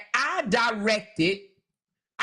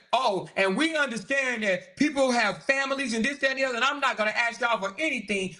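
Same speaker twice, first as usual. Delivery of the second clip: mock sweet promise; faster than usual. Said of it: "sit here and say".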